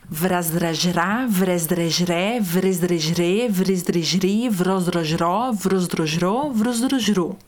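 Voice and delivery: Vrasdrajrá through vrosdrojrô drawn out slowly, each cluster distinct; slow articulation drill. Shown as a demonstration. Teacher leading the final syllable sequence. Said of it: "a última sequência".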